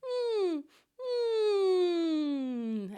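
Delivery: high, loud whimpering hum like a puppy dog. Shown as a demonstration. Vocal coach demonstrating the puppy whimper for students. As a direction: whimper gently up in the mask like a puppy. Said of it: "whimper like a puppy dog".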